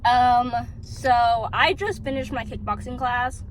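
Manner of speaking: speaking around a piece of gum; chewing while talking. Real, not acted. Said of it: "Sorry, I'm chewing gum".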